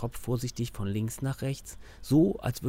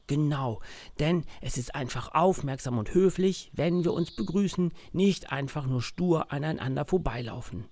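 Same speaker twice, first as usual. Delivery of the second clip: put-on child voice. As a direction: lively kid playing the dad. Max explains to his teddy.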